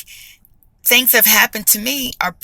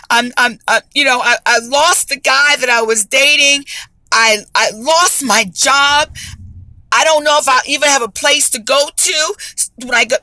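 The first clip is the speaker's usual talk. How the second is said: despairing plea; 4 semitones higher than usual. Retold or imitated. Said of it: "and I am crying".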